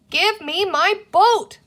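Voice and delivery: high, loud and slow demanding shout. A narrator's reading. Boy shouts at creature grabbing his boat, loud and slow. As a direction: bellow for your toy back.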